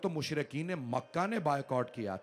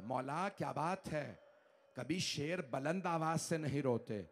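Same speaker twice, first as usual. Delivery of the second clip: soft, lower, hushed question; 3 semitones lower, 5 dB quieter than usual. Acted. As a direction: ask it quietly, almost afraid. Fizza asks again, hushed. (धीमी, दबी आवाज़ में सवाल)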